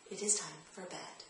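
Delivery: the same calm, soft, firm line; steady and gentle, no emotion; firm but loving. Shown as a demonstration. Parent repeating the bedtime line, soft and firm. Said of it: "In the same firm, loving voice".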